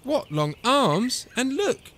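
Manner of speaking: fussy, disapproving grumble; grumbling. A narrator's reading. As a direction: pick fault with growing dismay. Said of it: "she grumbled".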